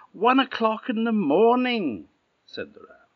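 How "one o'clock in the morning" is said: squeaky high animal voice; high ram voice. Acted. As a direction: pitch it up as the talking ram. Ram answers the companion.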